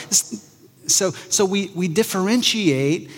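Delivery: ordinary talk, nothing marked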